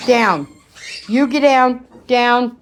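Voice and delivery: loud, firm "down" orders; loud orders to a jumping puppy; firm command. Real, not acted. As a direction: make the dog get down. Ordering dog off furniture.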